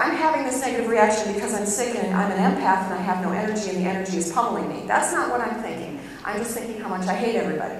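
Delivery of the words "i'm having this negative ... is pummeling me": rushed inner voice. Retold or imitated. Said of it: "I don't think to myself".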